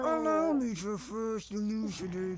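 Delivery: talking through a clenched jaw. Acted. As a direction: barely open the mouth. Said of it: "I'm intentionally closing my mouth more and more".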